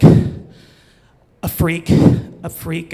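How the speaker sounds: breathless upset cry of a freak, a freak; girl rushing up upset about a freak, a hint of panic. Girl telling him she was upset, mock upset breathless. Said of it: "she was really upset".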